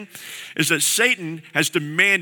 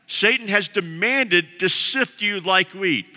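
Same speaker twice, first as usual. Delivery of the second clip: slow grave warning; 3 semitones higher, slower than usual. Retold or imitated. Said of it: "he says that this is what's happening".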